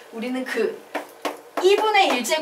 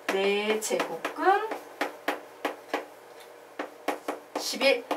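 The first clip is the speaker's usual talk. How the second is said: very slow, softer "네 제곱근십일" with a long pause before "십일"; demonstrated slow reading; 3 semitones lower, 8 dB quieter, much slower than usual. Shown as a demonstration. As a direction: quietly spell out "네 제곱근십일", halting midway. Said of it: "요런 식으로 읽는 거예요".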